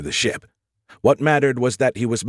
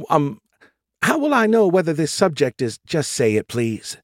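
higher, fast-talking AI voice; Skippy voice; 6 semitones higher than usual. A narrator's reading. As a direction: voice the cocky AI.

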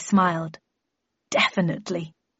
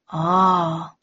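exclaimed; 2 semitones lower, 4 dB louder than usual. A narrator's reading. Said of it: "he exclaimed".

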